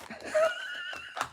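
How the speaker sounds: long, very high mock squeal; imitated high squeal. Crafter imitates friend getting sour grapes, high squeal. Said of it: "she's like".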